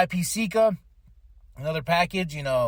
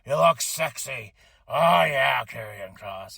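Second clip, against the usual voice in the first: slow, drawn-out admiring impression; lightly voiced boss savouring every word; imagined boss's voice; 3 semitones lower, slower than usual. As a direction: drag it out like an approving boss. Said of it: "that Vince probably was like".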